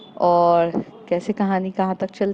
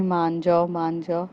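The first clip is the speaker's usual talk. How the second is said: soft pleading, fading away; coaxing lovingly; 2 semitones lower, 4 dB quieter than usual. Acted. Kaira coaxing Riddhi, soft loving plea. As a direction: gently coax her to give in. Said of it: "बहुत प्यार से कह रही रहती है".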